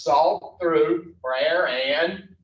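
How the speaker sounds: slowly reads the step aloud; drawn out, leaving the gap for the room to fill; reading a text aloud word by word. Shown as a demonstration. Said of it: "It says".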